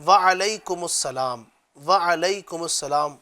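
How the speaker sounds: slow "وعلیکم السلام" with a long wa-alaikum; correct reply. Shown as a demonstration. Teacher modelling the correct reply, slow. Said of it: "اور جواب جو ہے وہ ہے".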